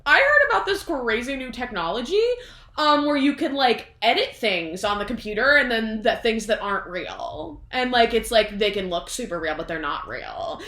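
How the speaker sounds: lightly voiced queen pitching a cover-up; scheming Queen. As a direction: sell a sneaky idea. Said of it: "the Queen is like".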